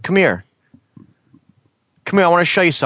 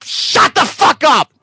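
slow angry snap; 6 semitones higher, slower than usual. Real, not acted. Annoyed at interruption.

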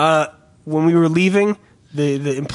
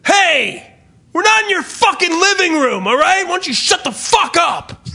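angry shout; 12 semitones higher than usual. Retold or imitated. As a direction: tell them off at full volume. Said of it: "so pissed off, goes".

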